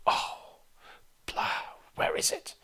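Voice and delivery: breathy, fed-up under-breath grumble; impatient whisper. Retold or imitated. Teacher voicing impatience at a late bus, breathy grumble. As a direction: sigh it out waiting for the bus. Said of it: "look at the watch again and go".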